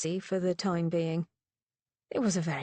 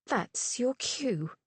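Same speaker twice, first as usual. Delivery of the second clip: cold; 5 semitones higher, much slower than usual. A narrator's reading. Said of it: "in the same cold voice".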